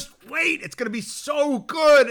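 high, slow coaxing voice; high mock coaxing. Urging himself to wait, high coaxing voice. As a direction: coax sweetly, up high. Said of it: "And you're like".

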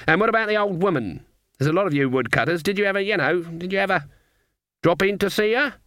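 put-on high, sweetly innocent old woman; sweet old lady. A narrator's reading. Granny fakes innocence to the woodcutter, sweet and high.

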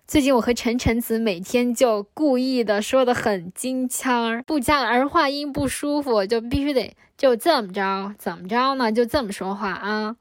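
lightly put-on Beijing accent with heavy erhua. Shown as a demonstration. Joking with friends in a put-on Beijing accent. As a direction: roll the Beijing erhua in on purpose.

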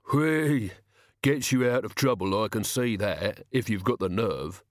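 admiring crook, lightly voiced; impressed henchman. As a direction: let the admiration out, then consider it. Impressed pupil answers.

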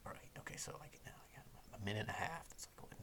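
whispered, quick inner countdown, nearly silent. Retold or imitated. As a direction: whisper the plan to yourself as if counting in your head. Counting seconds silently in his head.

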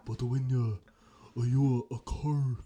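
halting mock Asian accent; lightly caricatured Asian accent in broken bursts. Shown as a demonstration. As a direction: fumble through a put-on Asian accent. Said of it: "like, that sounds bad".

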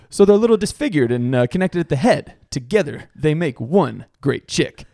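hammed-up pitch for a bet; imitated movie jock. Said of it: "He's like".

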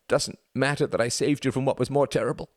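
high, cracked, sobbing voice; voice breaking. A narrator's reading. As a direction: let the voice break completely. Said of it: "voice broke completely".

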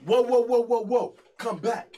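loud, high, rapid-fire whoas; big dude hollering after departing visitors; calling out. Retold or imitated. Acting big dude stopping them.

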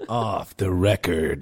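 movie trailer voice. Shown as a demonstration. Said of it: "Oh, do it again".

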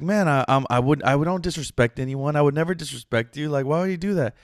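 understated hurt disbelief; retold mild shock. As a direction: imitate a shocked friend pleading innocence. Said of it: "like, kinda shocked".

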